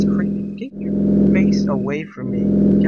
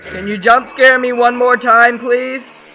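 sarcastic; 7 semitones higher, 6 dB louder than usual. Real, not acted. Sarcastic plea to the game.

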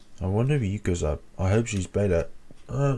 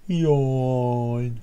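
mock yawn said aloud; 3 semitones higher than usual. Shown as a demonstration. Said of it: "Because that's what everyone says".

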